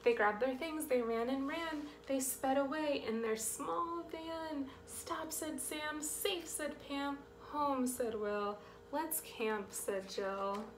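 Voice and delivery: rhythmic picture-book narration; reading to children. A narrator's reading. Reader telling children of the escape, lilting story read. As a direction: start brisk and lifted, ease down toward the end.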